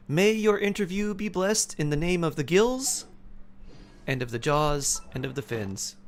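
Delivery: playful ceremonial blessing, starting high and stepping down; mock blessing. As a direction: intone a pretend benediction.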